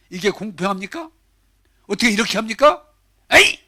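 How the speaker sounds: acted-out complaint, rising into indignation; indignant protest. All-day worker complaining to the master about equal pay, indignant. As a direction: play the aggrieved worker appealing to the boss. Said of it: "막 성질을 내는 거예요".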